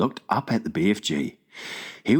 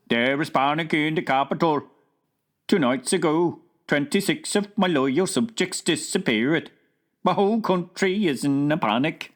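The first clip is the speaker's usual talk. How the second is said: lightly voiced King of Sweden, higher and alarmed; a flustered king on the phone, raised pitch; worried King; 7 semitones higher than usual. A narrator's reading. King of Sweden reports panic to the Queen, alarmed.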